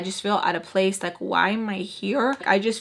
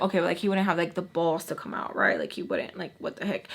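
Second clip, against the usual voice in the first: nervous hush; 3 semitones lower, 6 dB quieter than usual. Retold or imitated. Nervous alone outside, door opens.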